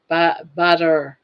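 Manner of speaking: Southern "butter" slow and leaning. Shown as a demonstration. Scene: Southern caller repeating butter slowly. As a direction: draw out "butter" Southern style, no r. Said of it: "I'm Southern".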